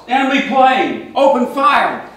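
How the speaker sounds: panicked sailor's shout. Retold or imitated. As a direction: bellow the alarm across the deck. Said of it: "The drunk shouts".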